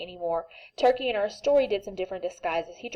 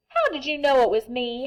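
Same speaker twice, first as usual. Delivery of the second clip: howling; 4 semitones higher, 4 dB louder than usual. Acted. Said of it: "howled Turkey".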